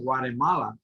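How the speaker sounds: Guatemala with a softened American T; attempted American accent. Shown as a demonstration. Teacher warns students off imitating it, attempted American accent. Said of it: "dare to say it".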